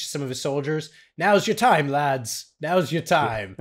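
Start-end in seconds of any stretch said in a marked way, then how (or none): 1.2-2.5 bad put-on British officer accent, punchy; rally the lads in a clumsy British accent; mock British general rousing his men; horrible British accent. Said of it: "This is a horrible accent". 2.6-3.6 repeated in a milder bad British accent; a calmer echo in mock British; lightly put-on British accent, steady; horrible British accent. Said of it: "This is a horrible accent".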